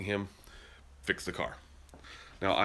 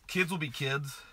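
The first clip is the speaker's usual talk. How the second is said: incredulous echo; 6 semitones higher, slower than usual. Real, not acted.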